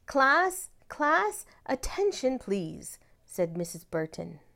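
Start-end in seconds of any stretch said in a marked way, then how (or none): 0.1-0.7 high, louder call for attention. A narrator's reading. Principal hushes the noisy class, calling out high. 0.9-3.0 high call rising then easing on please; calling again, firmer. A narrator's reading. Principal hushes the class a second time, high then easing.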